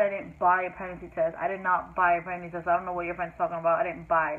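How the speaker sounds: "buy" stressed as the key word of the denial. Retold or imitated. Teen denying to mom that she bought a test, stress on "buy". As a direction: lean on "buy" in each denial. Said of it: "I kept saying buy because I wasn't lying".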